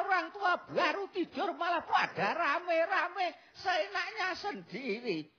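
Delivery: high, grumbling elder telling off noisy youngsters; grumpy old grandpa. Acted. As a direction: scold them like a grandpa dragged out of bed. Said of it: "maunya si Mbah apa?".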